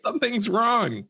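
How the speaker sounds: high, slow, pitiful complaining; whiny sick adult. Retold or imitated. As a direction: whimper like you feel awful. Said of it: "you're just like".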